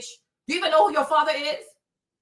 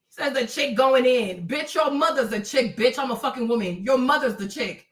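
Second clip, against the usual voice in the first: normal talking voice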